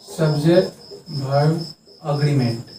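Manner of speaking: सब्जेक्ट वर्ब एग्रीमेंट said slowly, word by word, the last word falling; धीरे-धीरे जोर देकर; slow emphasis. Shown as a demonstration. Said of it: "क्या जानते हैं?".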